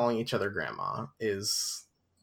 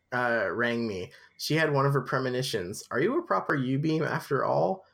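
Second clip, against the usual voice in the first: measured storybook narration; story narration; 2 semitones higher than usual. A narrator's reading. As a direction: read it aloud like a novel. Reads the book aloud.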